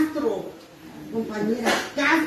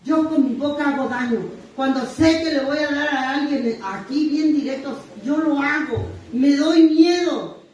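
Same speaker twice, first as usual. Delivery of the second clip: pleading prayer. Retold or imitated. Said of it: "yo le pido a Dios".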